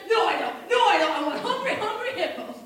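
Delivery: loud, urgent self-correction; acted childish insistence; excited child. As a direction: blurt it out like an eager kid. Child changing his mind about present.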